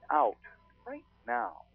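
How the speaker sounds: put-on high, sharp "right now" like a small child; child ghost voice. Child ghost on the tape telling them to leave, high-pitched. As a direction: echo the child on the recording. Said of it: "like that".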